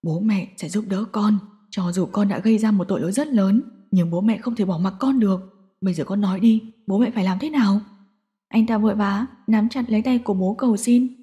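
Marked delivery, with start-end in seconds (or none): 0.0-7.8 choked up. Acted. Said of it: "nghẹn ngào".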